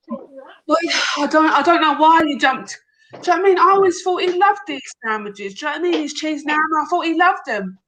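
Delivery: lightly voiced English wife in a mild English accent; a touch of a puzzled wife, English accent. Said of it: "I tried to do the accents".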